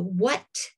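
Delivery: what stressed with a rising lift; emphasis on what. Shown as a demonstration. Teacher stressing what in translation. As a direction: lean on the word what. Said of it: "on the word what".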